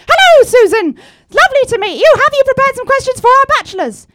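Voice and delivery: Cilla Black impression. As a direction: play the cheery TV hostess. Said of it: "I'm Cilla Black".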